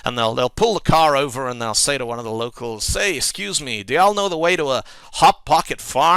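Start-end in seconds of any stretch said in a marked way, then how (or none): 2.8-6.1 put-on American accent, raised and louder; American tourist. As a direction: ask directions as a hammed-up American tourist. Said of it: "an American tourist".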